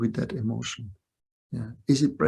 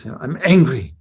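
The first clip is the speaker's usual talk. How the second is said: loud insistence, imitating a child; angry grandchild; 5 dB louder than usual. Grandchild insisting to grandparent, mock-angry. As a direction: act out a cross child insisting. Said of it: "She said".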